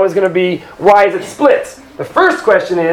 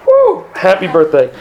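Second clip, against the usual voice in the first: excited cheer; 3 semitones lower than usual. Real, not acted. Birthday mentioned, teacher cheers.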